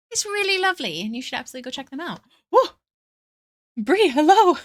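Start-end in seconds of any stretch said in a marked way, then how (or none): 2.5-4.5 excited greeting. Real, not acted. Greeting raid arrival excitedly.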